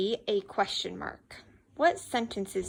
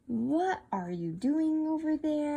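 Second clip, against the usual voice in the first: WHAT drawn out in a slow, higher question; 4 semitones higher than usual. Shown as a demonstration. Teacher showing pupil a question starter, slow questioning. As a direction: stretch out WHAT to open the question. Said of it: "Those are all great sentence starters".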